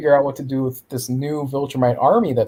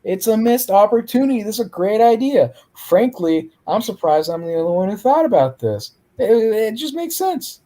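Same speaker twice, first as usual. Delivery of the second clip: a put-on high voice for the alien lady; 8 semitones higher than usual. To Alan, the green alien lady pitches her idea in a high put-on voice. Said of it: "the green alien lady is like".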